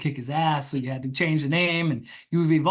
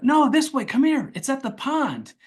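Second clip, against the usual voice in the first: high, loud, urgent pleading; a lady hurrying him to her dying fish, high and frantic; frantic client; 11 semitones higher, 4 dB louder than usual. Retold or imitated. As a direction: pull him along in a panic. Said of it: "And she's like".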